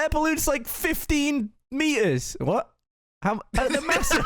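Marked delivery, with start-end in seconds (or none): 3.2-4.2 high, laughing through the words. Real, not acted. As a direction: barely get it out for laughing. Cracking up over balloon size.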